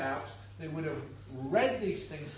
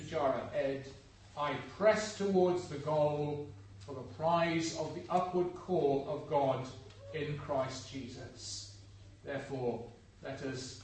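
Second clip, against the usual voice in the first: measured, reverent Bible reading; deliberate reading with pauses between phrases; scripture reading; 3 semitones lower than usual. Acted. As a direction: read scripture aloud to a congregation. Reads the scripture passage aloud.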